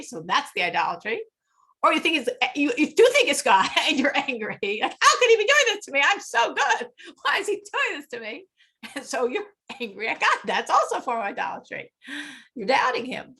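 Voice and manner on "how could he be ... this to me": high, fast, aggrieved protest; indignant complaint. Retold or imitated. Teacher imitating a believer complaining to God, indignant. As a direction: mimic someone protesting that God is unfair.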